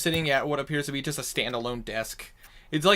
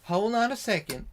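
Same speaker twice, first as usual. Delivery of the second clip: higher, polite receptionist; 7 semitones higher than usual. Acted. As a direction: ask them to wait, politely. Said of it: "she goes".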